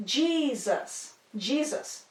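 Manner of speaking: Jesus said JEE-zus; English "Jesus", front stressed as JEE-zus; stress on first syllable. Shown as a demonstration. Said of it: "emphasis on the beginning of the word".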